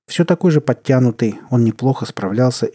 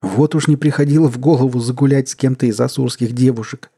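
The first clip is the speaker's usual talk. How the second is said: laughing; 4 semitones higher, 4 dB louder than usual. A narrator's reading. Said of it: "смеялся Манду".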